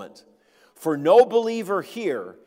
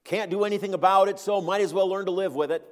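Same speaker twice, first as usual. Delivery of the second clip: fast, resigned mock shrug, a little higher; shrugging resignation; 5 semitones higher, 4 dB louder, faster than usual. Preacher mimics a resigned believer, fast shrugging resignation. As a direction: rattle it off like someone giving up. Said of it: "a spirit of resignation".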